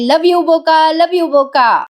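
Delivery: थोडी वर चढवलेली नक्कल केलेली घोषणा; निवडणुकीच्या घोषणेसारखं हलकंसं ओरडून म्हणा. Retold or imitated. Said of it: "मोठ्याने ओरडते". (काव्या आईसोबत पार्थसाठी घोषणा देत, हलकंसं ओरडून)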